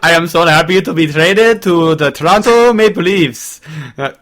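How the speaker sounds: lightly put-on French accent; a joking hint of French accent for a Swedish player; half-hearted French-accented player voice; mock French accent. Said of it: "I don't know why I'm speaking French".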